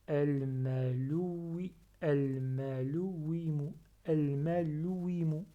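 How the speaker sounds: AL-MALOUWIMU with no weight on the wi; without shadda. Shown as a demonstration. Teacher showing the word without shadda, w left light. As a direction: glide through "al-malouwimu", leaving the w unpressed. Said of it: "J'appuie pas sur le oui".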